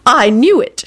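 put-on high, triumphant elderly lady; satisfied old woman. A narrator's reading. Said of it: "she responded with satisfaction".

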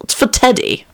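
high, cheerful explanation. A narrator's reading. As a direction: chirp it lightly, pitch lifted. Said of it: "he said cheerfully".

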